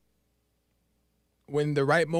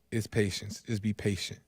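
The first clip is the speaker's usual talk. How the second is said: soft and tender; 9 semitones lower, 7 dB quieter than usual. Real, not acted. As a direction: drop to a soft, gentle urging. Preacher softly stressing patience.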